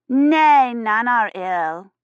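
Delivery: put-on high then slow little girl; a small girl reassuring the priest; child's voice.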